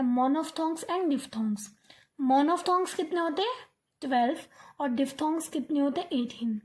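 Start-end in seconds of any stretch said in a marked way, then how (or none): 0.0-1.7 slow careful naming. Shown as a demonstration. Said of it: "two parts में divide किया गया".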